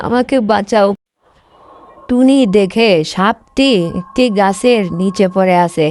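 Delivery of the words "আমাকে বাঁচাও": mock pained calls for rescue; hammed-up trapped snake pleading; snake crying for help. Trapped snake calling Tuni for help, mock pained.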